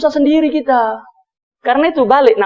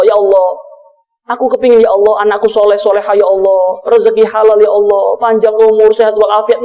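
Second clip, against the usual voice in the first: mock weepy prayer, lightly done; acted tearful plea; 4 semitones lower, faster than usual. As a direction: plead with God as if crying, in a lowered voice.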